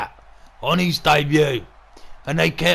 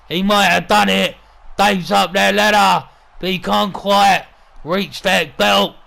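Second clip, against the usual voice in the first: raised, urgent commentary; tense play-by-play; 4 semitones higher, 4 dB louder than usual. Acted. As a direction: call a climb that might win the match. Commentator tense as climber nears belt.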